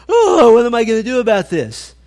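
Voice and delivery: loud, high wail of panic; mock panic. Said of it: "Now he goes".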